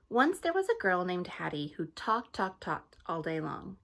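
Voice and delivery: lively read-aloud storytelling; story narration. A narrator's reading. Teacher reading a storybook to her class, lively.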